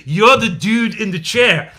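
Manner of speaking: put-on slow Trainspotting-style Scottish accent; a lightly done Scottish movie impression, drawn out. Co-host quoting Trainspotting about Diaz-Canel, Scottish accent. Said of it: "with the Scottish accent".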